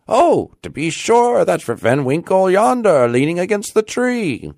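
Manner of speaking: high, loud assured call; crying out. A narrator's reading. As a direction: point someone out across a crowd. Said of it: "cried two or three".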